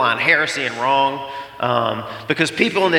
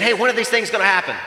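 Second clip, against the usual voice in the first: eager disciples asking; 6 semitones higher, faster than usual. Retold or imitated. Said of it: "They said".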